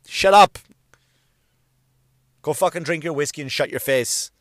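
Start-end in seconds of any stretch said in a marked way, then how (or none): 0.1-0.6 angry shout. Real, not acted. Angry outburst at McGregor.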